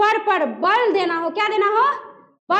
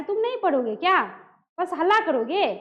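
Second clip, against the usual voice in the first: affectionate chiding. Shown as a demonstration. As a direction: ask it kindly, without anger. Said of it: "क्या कहता है प्यार से". (प्यार से)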